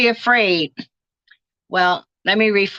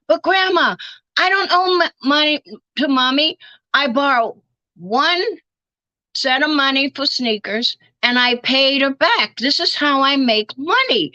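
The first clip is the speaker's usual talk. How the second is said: grandson's voice; 4 semitones higher than usual. Retold or imitated.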